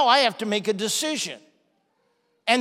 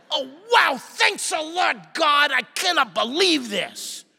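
sarcastic complaint; 4 semitones higher than usual. Retold or imitated. Student griping to God about the test, sarcastic. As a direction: throw sarcastic thanks at God.

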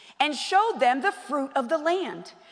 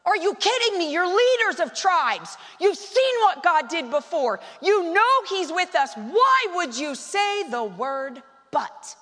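righteously angry; 4 semitones higher than usual. Retold or imitated. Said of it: "he's gotta be righteously angry".

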